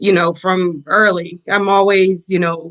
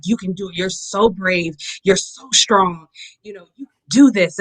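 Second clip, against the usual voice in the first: encouraging mom; 2 semitones lower than usual. Retold or imitated. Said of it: "trying to encourage her".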